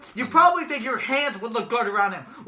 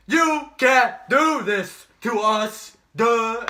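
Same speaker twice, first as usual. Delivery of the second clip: slow, drawn-out, louder mock whine in an odd put-on voice; mocking whiny quote; 5 dB louder, much slower than usual. Mocking a losing team's whiny complaint. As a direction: sneer it like a sore loser. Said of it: "they can come back and be like".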